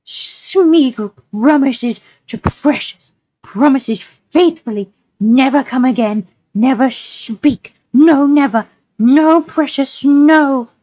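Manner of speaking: high, slow, desperate creature voice; Gollum, desperate. Acted. Creature promising never to return, desperate Gollum voice. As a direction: swear it high and drawn out, pleading.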